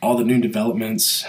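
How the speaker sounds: stuffy nose from a cold; nasal voice. Real, not acted. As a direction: talk through a blocked, nasal nose. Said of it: "nasally voice. I've got a little bit of a cold".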